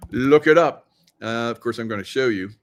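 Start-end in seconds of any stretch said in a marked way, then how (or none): 0.1-0.9 louder, insistent second look it up; urging them to check it themselves; emphatic repeat. Shown as a demonstration. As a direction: push it at the audience.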